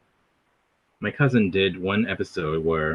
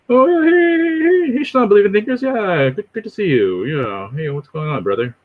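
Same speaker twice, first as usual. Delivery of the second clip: high greeting easing down to usual pitch; Vocab excited; 9 semitones higher, 3 dB louder than usual. Acted. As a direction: burst out high, then settle, imitating a streamer. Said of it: "He gets excited".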